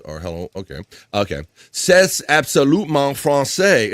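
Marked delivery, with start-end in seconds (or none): 1.7-3.9 slow, put-on French accent; mock French accent. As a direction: say it like a proud Frenchman, slowly. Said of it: "It's absolutely French".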